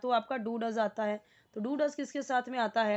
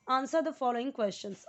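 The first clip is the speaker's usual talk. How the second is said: slow reading; 2 semitones higher, much slower than usual. Shown as a demonstration. Teacher reading the exercise heading to students, slowly. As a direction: answer the following questions, read slowly and clearly. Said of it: "teacher reading an exercise heading".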